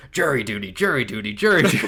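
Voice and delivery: mock movie grouch chanting, rising into laughter; Grinch impression. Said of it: "He's like".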